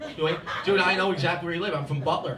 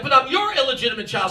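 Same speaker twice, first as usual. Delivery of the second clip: exasperated protest; 5 semitones higher, 4 dB louder than usual. Retold or imitated. Acted quarrel with his mother.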